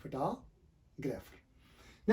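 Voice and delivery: फोटोग्राफर slow, fə-ta-gra-fer, stress on ta; slow careful फोटोग्राफर; correct pronunciation. Shown as a demonstration. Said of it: "ये word है फोटोग्राफर".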